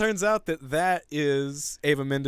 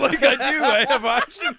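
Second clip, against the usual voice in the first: high, loud mock realisation with laughter; laughing mimicry; 8 semitones higher, 5 dB louder, slower than usual. Mimicking a newly slim woman's reaction, laughing. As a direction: act it out while cracking up.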